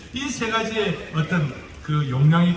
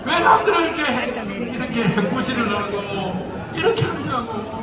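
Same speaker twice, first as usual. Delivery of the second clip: Gyeongsang dialect; 4 semitones higher, slower than usual. Retold or imitated. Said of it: "경상도 사투리를".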